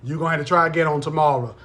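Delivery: loud, sassy teacher scolding a late student; mock strict teacher. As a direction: play the no-nonsense teacher telling off a latecomer.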